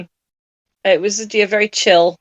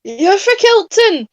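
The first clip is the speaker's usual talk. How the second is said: high, slow Scottish groundskeeper voice; Willie Scottish accent; 12 semitones higher, slower than usual. Retold or imitated. Quoting Groundskeeper Willie in a high, slow Scottish accent. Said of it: "groundskeeper, Willie".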